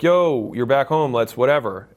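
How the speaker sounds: loud bro invite from back home; hyped-up friends. Retold or imitated. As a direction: play the pumped hometown friend calling you out. Old friends inviting him out.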